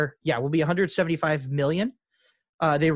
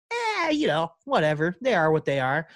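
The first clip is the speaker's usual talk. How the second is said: indifferent shrug. Acted. Indifferent fan of rival team.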